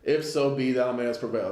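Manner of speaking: measured, solemn scripture reading; a preacher reading from the pulpit. Acted. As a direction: read the verse like a preacher, slowed. Reads scripture aloud.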